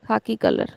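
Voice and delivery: khaki said the English way, aspirated kh; English word. Shown as a demonstration.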